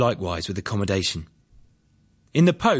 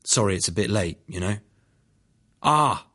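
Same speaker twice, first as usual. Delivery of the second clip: ordinary delivery, nothing marked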